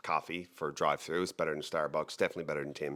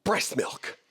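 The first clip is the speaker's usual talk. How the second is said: deadpan guess; 12 semitones higher than usual. Retold or imitated. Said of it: "And he goes".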